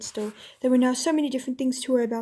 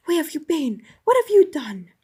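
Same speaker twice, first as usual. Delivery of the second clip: louder, urgent king's questions; demanding king; 4 semitones higher, 6 dB louder than usual. Acted. King demanding answers from Jill, urgent and louder. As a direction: press her hard for answers.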